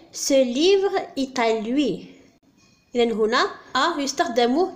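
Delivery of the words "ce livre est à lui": very slow, word by word; very slow example. Shown as a demonstration. Teacher to students reading the example sentence very slowly. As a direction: let every word land for the learners. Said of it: "مثال،".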